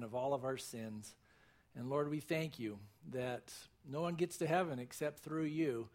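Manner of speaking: measured congregational prayer, reverent. Real, not acted. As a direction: pray aloud to the Lord for the congregation.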